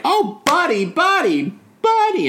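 a mock overjoyed Rose greeting an old friend; Rose's high mock delight at Buddy; gushing Rose. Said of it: "she's all like".

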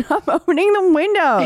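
high-pitched playful scolding; mock exasperation. Co-host scolds the character for opening windows, mock exasperated.

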